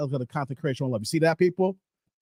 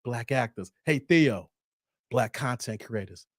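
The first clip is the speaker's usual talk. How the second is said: low hushed skit voice; 9 semitones lower, 6 dB quieter than usual. Retold or imitated. Retelling Chappelle skit voice.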